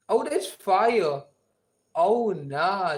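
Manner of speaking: slow, loud hyped exclamation; drawn-out loud praise; excited. Real, not acted. Hyped by mom's voice note.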